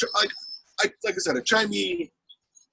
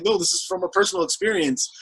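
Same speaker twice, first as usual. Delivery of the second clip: much higher, pleading to be understood; exasperated high insistence. Retold or imitated. Exasperated, to the offended woman online. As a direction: squeak it out in disbelief.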